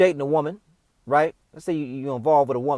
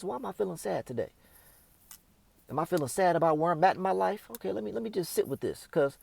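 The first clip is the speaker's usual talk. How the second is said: soft, inward musing; quiet self-questioning; 5 dB quieter than usual. Pretend. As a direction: ask yourself gently, softer. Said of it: "You're like".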